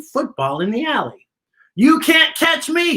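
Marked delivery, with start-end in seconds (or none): 1.7-3.0 taunting. A narrator's reading. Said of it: "he taunted".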